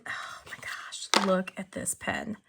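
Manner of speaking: breathless whisper of delight; excited whisper. Real, not acted. Looking at the new pen for viewers, an excited whisper. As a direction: whisper it like a thrilled secret.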